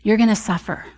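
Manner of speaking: quietly loving, as God speaking; a hint of a loving divine voice; lovingly. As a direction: say it gently, with tender love. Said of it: "and very lovingly".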